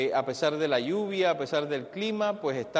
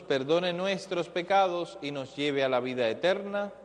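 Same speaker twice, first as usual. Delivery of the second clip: recited prayer. Real, not acted. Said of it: "digamos todos juntos".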